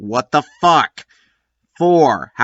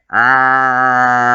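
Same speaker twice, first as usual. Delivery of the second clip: mock scream; 4 dB louder than usual. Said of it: "the room screaming".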